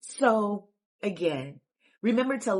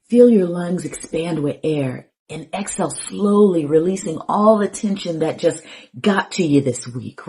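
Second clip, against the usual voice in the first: measured meditation guide, pausing between phrases; lightly guided-meditation delivery, unhurried phrasing; 5 dB louder than usual. Acted.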